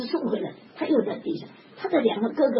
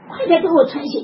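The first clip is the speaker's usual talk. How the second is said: high, loud demanding call; 快点给我穿鞋 shouted high; urgent shout; 6 semitones higher, 10 dB louder than usual. Retold or imitated. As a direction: shout for the shoes. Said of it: "喊叫".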